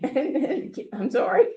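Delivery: laughing through sudden tears, voice going high; a choked, teary laugh as the feeling breaks through; emotional laugh. Real, not acted. Grandmother overcome introducing her daughter, teary laugh. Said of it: "I'm getting so emotional".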